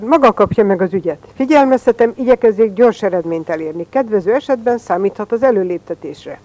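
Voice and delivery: loud, commanding official; loud stern command; firm decision. Acted. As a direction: boom it out like a stern chief. State secretary gives orders.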